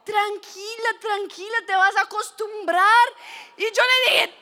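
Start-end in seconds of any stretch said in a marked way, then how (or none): 0.0-3.1 calm someone down, imitating the salon lady; soothing reassurance. Waxer to panicking girl, soothing reassurance.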